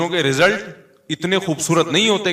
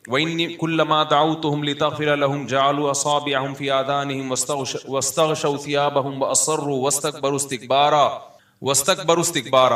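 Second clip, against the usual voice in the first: Quran recitation. Acted. Preacher quoting Noah's prayer to listeners, measured recitation.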